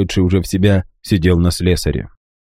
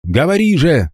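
higher, barked order; shouted demand; 8 semitones higher than usual. A narrator's reading. Guignon with knife at boy's throat, harsh demand. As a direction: push him to speak. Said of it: "крикнул Гиньон".

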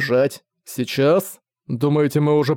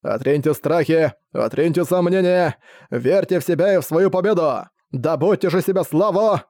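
roaring rallying speech. Acted. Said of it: "Его звериный рёв разнёсся над полем боя".

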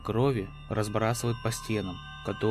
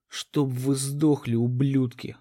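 angry curse; 2 semitones higher, 3 dB louder, slower than usual. Acted. Captain curses mission control.

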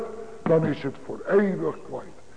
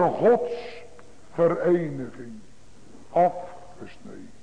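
a breathy whisper, cut off; a hushed, voiceless afgesneden; 3 semitones lower, 6 dB quieter, slower than usual. Acted. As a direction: whisper it like a final verdict. Preacher on separation from God.

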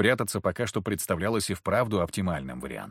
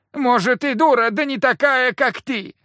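high, loud woman's scolding; shrill retort; 13 semitones higher, 6 dB louder than usual. A narrator's reading. Wife shouts back at her husband, high and loud.

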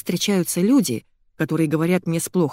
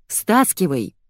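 commanding; slower than usual. A narrator's reading. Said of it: "велела я".

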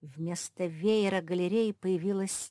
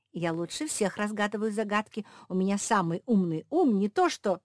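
boastful; 4 semitones higher, 7 dB louder than usual. Acted. Josie's original boast.

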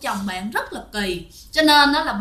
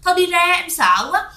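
higher-pitched, alarmed protest; retold fearful complaint, pitched up; frightened wife; 5 semitones higher than usual. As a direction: voice a scared wife pleading with her husband. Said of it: "Thì bạn sợ".

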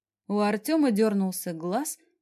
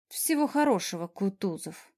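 muttering. Acted. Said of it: "буркнула я".

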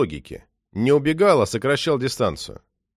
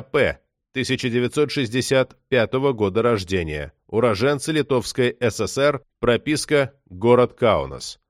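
dry, even police-bulletin read; official report reading. A narrator's reading. Police report on a murder for internal use, official monotone. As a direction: read it out as a formal case file.

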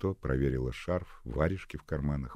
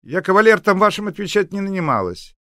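put-on shrill old neighbour; 13 dB louder than usual. Grumpy neighbour shouting at Nadya.

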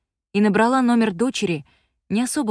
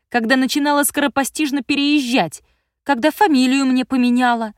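higher, louder furious rant of a grown daughter; angry teen daughter; 6 semitones higher, 4 dB louder than usual. A narrator's reading. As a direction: snap back at a controlling mother. Daughter's accusing tirade.

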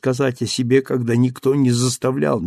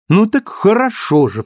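high, louder playful cry; mock exclamation; 9 semitones higher, 5 dB louder than usual. A narrator's reading. Cosette crying out at Marius in a pretend huff. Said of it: "вскричала она".

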